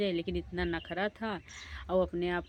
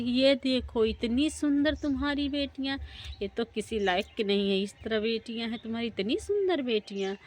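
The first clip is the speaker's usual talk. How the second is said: higher and louder, sneering at the daughters; mocking; 4 semitones higher, 4 dB louder than usual. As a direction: ridicule their beauty with a raised voice. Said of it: "खूब ज़ोर-ज़ोर से हंसने लगी". (ऊँची आवाज़ में ताना मारते हुए)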